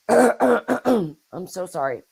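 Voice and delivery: hoarse voice after clearing throat; hoarse and slow apology; raspy whisper. Real, not acted. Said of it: "I'm losing my voice".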